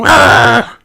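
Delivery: high loud "Grr"; mock growl; dragon growl. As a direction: roar like a toy dragon. Didier growls.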